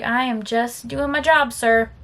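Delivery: slow, unsmiling retort; measured, cold comeback; deadpan reply. Retold or imitated. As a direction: answer him slowly without a smile. Retold reply to coworker, unsmiling.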